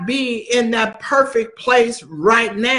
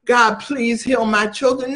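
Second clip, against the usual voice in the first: mock whining plea. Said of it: "Don't go whining".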